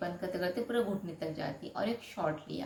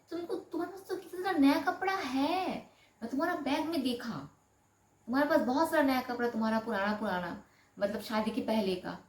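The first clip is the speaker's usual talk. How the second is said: husband's scolding, pitched much higher; mock husband; 5 semitones higher than usual. Wife imitates husband scolding about her clothes, high-pitched. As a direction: lecture her like the stingy husband. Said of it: "तो मेरे को बोलते".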